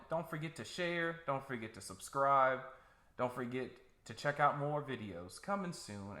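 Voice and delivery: upbeat host sign-off; podcast outro. Acted. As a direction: wrap up the show like an announcer.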